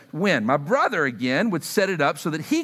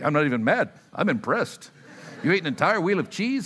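a quick nod to Ron Burgundy, barely voiced; Ron Burgundy impression; 2 semitones lower than usual. Pastor quoting Anchorman to the congregation, lightly voiced. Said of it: "a little anchor man there for you".

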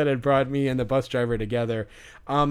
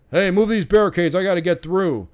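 louder, higher mock demand; imitated angry yelling; 4 semitones higher, 4 dB louder than usual. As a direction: act out an irate man demanding passage. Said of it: "yelling at people".

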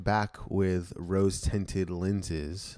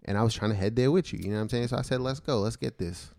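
laid-back pimp swagger; faster than usual. Acted. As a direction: talk like a smooth pimp. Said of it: "this is his pimp voice".

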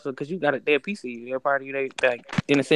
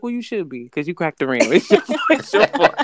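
teasing blame breaking into laughter, rising high; laughing quote; 4 semitones higher, 3 dB louder than usual. Retold or imitated. Boyfriend jokingly blames her for the rim, laughing high. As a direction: play him scolding her but cracking up. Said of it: "He was like".

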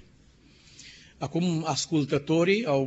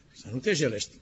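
softer, stunned question on "te jelești"; incredulous echo; 4 semitones lower, 5 dB quieter, faster than usual. Acted. Ezekiel echoing God's order, softly incredulous. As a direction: repeat "să nu te jelești" quietly, as if it can't be true.

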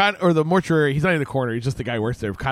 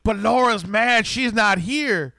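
mock outburst; 6 semitones higher, slower than usual. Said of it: "She's like".

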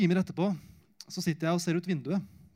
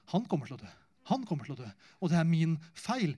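despairing inner voice; 2 semitones lower, faster than usual. Retold or imitated. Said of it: "mitt emosjonelle jeg sier".

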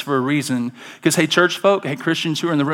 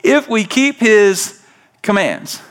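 lightly voiced God answering; 5 semitones higher than usual. Pastor voicing God's answer to the church, raised and emphatic. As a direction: give the answer like a reveal. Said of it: "He says".

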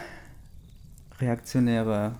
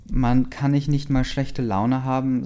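louder, slower, fed-up retort; annoyed; 3 semitones higher, 3 dB louder than usual. Acted. Bella annoyed at friends teasing her mood, louder and slower. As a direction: snap back, irritated. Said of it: "sagte ich genervt".

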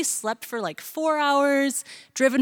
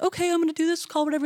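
higher, faster build-up to a mating call; hyped-up announcement; 7 semitones higher, 3 dB quieter, faster than usual. Retold or imitated. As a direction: rush it, winding up the crowd. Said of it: "they'd be like".

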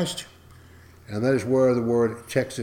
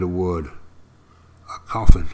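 dramatic whisper; 6 semitones lower, 5 dB louder than usual. Acted. Spooky reveal of a coffin.

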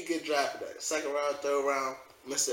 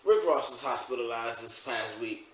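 somber; 6 semitones lower, 5 dB quieter than usual. Real, not acted. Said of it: "wrap it up on a somber note".

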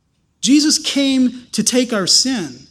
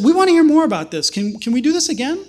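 quick, bright and keen, leaning in to hear more; higher and faster, like someone hooked by the idea; eager curiosity; 5 semitones higher than usual. Retold or imitated. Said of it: "And they said".

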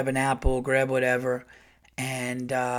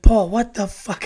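loud, slow, higher startled what the fuck; annoyed wife; 7 semitones higher, 9 dB louder than usual. Retold or imitated. Wife jolted awake, yelling at husband, loud annoyed. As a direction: imitate the woken wife snapping at him.

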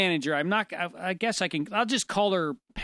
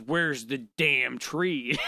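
mild mock angry; 5 semitones lower, much slower than usual. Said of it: "She blew up".

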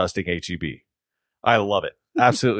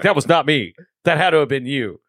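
higher-pitched retold protest; mock indignant denial; 5 semitones higher, 3 dB louder than usual. Coworker disowning the smell to his friend, mock indignant denial. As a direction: deny it, higher and a bit insistent.

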